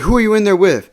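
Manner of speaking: high-pitched imitation of a suspicious ex; mock angry questioning. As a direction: demand an answer, lightly acted. Jealous ex interrogating through door.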